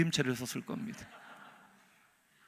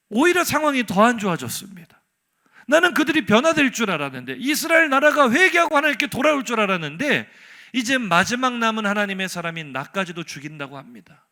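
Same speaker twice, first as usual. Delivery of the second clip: impassioned protest; 3 semitones higher, 8 dB louder than usual. Acted. Prophet protesting to God about his people, impassioned. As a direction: cry out the grievance at full volume, then ease.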